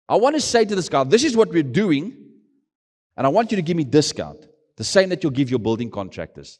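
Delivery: high, loud eager pitch to a businessman; pitching for a discount on building materials, eager and loud. Retold or imitated. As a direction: sell the plan with rising excitement. Pitching his plea to businessman.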